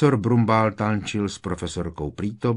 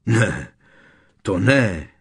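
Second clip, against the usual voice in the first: moderately raised, heated voice; shouted objection; 7 dB louder, slower than usual. A narrator's reading. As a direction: burst out loudly in disagreement. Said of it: "rozkřikl se Ron". (rozčilené zvolání)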